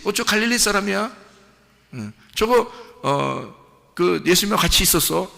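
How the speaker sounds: a hint of a suspicious crowd member; mock onlooker pointing out. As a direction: act a nosy onlooker catching him out. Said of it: "사람들이 들으니까 알지".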